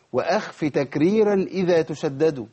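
slow chanted recitation of a rule line; recited verse. Shown as a demonstration. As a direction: recite it slowly like a teaching poem. (تلاوة بطيئة لبيت المتن)

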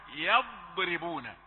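يضربون slow, thin ra; correct recitation. Shown as a demonstration. Teacher models after explaining, slow. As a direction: draw out يضربون carefully. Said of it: "ثم راء رقيقة".

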